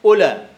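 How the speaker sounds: أولى said as ula, no w sound; أولى with long u and the waw silent; teacher says أولى as ula; pronunciation demo. Shown as a demonstration. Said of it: "لا تنطق الواو أصلًا".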